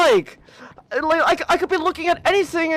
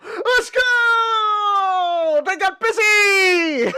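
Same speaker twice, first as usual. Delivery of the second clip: excited cheer; 4 semitones higher, much slower than usual. Real, not acted. Cheering at game event.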